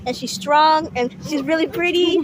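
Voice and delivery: excited. Real, not acted. Proudly showing off her mom.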